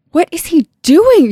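high, loud cry of alarm; distraught cry. Acted. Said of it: "Shannon cried".

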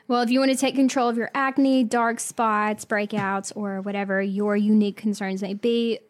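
brisk sponsor read. Acted. Host reading the Curology ad to listeners. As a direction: sell it like a podcast ad.

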